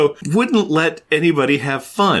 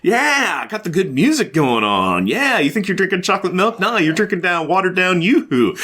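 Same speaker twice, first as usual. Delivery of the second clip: mock hyped Ben; 5 semitones higher than usual. Ben quoted, excited.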